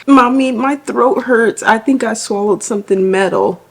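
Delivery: mom imitating her five-year-old, a hint of a scared child; little daughter voice. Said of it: "And she was like".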